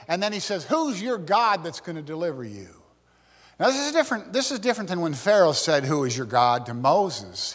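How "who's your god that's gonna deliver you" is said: mildly scornful, acted belittling question; arrogant challenge. King belittling the men and their God, arrogant. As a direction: put the question with understated arrogance. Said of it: "This is arrogant".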